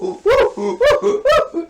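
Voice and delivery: high, loud whooping cheer; excited whooping. Retold or imitated. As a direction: whoop like a thrilled crowd. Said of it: "they would be like".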